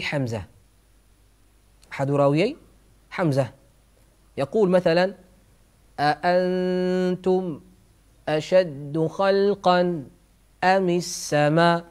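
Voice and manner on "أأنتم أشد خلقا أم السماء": slow recited "أأنتم أشد خلقا أم السماء", final hamza dropped; measured Quranic reading ending "السماء" without its hamza; hamza-dropping recitation. Shown as a demonstration. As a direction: recite slowly, stopping "السماء" on an open aa. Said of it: "بعض القراء يحذفونها خصوصًا إذا كانت ساكنة".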